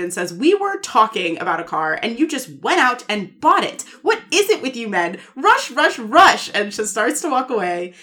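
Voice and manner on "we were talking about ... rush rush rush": mock exasperated rant, building at the end; lightly acted fed-up complaint, last words punched; retold exasperation. Recapping a wife scolding her husband over the car, exasperated. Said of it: "extremely exasperated".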